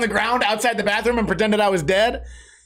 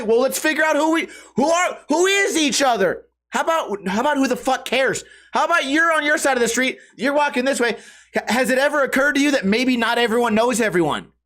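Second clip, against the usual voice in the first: exasperated rant; 6 semitones higher than usual. Retold or imitated. Ranting back at tweakers.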